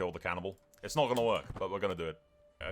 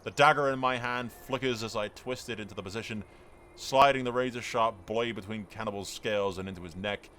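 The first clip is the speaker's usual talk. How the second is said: dramatic story narration. Acted. Reads out dramatic event text.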